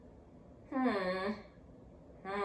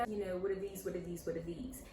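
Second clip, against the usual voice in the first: put-on British accent, softer; 2 semitones lower, 3 dB quieter, faster than usual. Student in music class, imitated British accent. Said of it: "I wanted to speak in a British accent".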